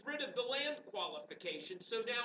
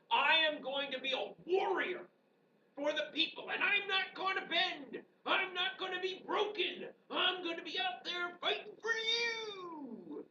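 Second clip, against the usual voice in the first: put-on higher, creaky old man voice; 5 semitones higher than usual. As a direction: speak as an old frontier warrior. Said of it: "hence the old man voice".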